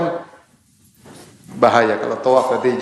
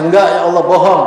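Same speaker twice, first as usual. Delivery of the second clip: lightly voiced child protesting, louder; child accusing; 3 semitones higher, 4 dB louder than usual. Child protests to Allah that the mother lies, mock whiny. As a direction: play the child telling on the parent. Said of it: "Kata anaknya".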